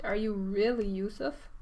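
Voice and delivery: slow, stunned question on really; super shocked. Shown as a demonstration. Brothers meeting Yusuf, super shocked question. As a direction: ask it as if you can't believe your eyes. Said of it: "if they're super shocked".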